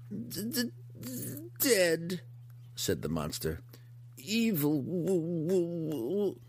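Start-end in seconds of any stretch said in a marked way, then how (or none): 0.1-2.2 high, stammering monster grief; grotesque monster voice. Acted. Hookar on its dead companions. 4.2-6.4 high, stuck monster stammer; grotesque monster voice. Acted. Hookar trying to say wizard.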